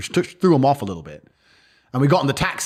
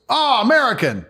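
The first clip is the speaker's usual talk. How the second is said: lightly voiced local thug, higher; mocking Moldovan guy; 10 semitones higher than usual. Imitating the Moldovan man who jeered at him, higher voice. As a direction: sneer out the word like a street tough. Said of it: "And this guy goes".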